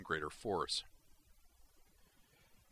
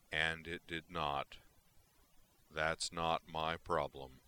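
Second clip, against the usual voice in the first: unsympathetic; slower than usual. Acted.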